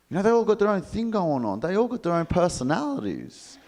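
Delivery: high-pitched earnest lecture; lightly voiced vegan lecturing the newcomer; preachy animal lover.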